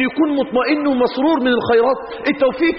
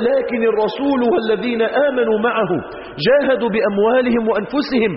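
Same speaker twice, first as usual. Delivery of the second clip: Quran recitation; slower than usual. Acted. Quran verse recited slowly.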